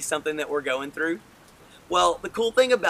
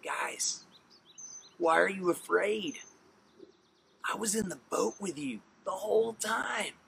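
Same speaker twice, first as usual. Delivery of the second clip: softer, lightly acted reproach; gentle reassurance; 4 semitones higher, 5 dB quieter than usual. Jesus to frightened disciples after the storm, gentle reassurance. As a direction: quietly question their fear, with pauses.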